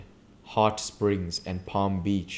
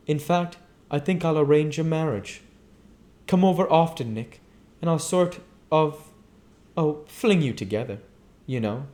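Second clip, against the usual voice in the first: lightly voiced Daisy, higher, playful; a hint of a mischievous hostess; Daisy teasing; 5 semitones higher than usual. Daisy teases Nick and Jordan about a marriage, lightly playful.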